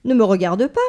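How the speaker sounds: a touch of playful defensiveness; retorting. Acted. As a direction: snap back defensively. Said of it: "riposta Daisy".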